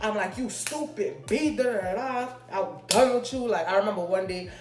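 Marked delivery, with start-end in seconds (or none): 0.4-3.5 retold blowup. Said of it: "I was so mad. I went off on him".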